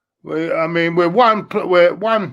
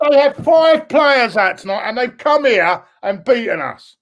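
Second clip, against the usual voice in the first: outraged; 3 semitones higher than usual. Real, not acted. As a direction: let the outrage burst out. Outraged at home defeat.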